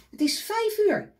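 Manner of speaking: high, loud call of the hour; high loud time call; announcing the time. A narrator's reading. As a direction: ring it out like a clock.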